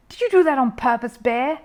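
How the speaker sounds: loud, high accusing shout; angry shout. A narrator's reading. Angry neighbour shouting at the bear over the fence. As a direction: yell the accusation.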